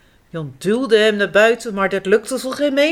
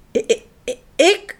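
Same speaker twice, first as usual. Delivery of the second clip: stumbling on the first word, i-i-i-ik; a bashful hedgehog stammers; stammering; 4 semitones higher than usual. Acted. Hedgehog stammers shyly at the director. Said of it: "stamelt hij".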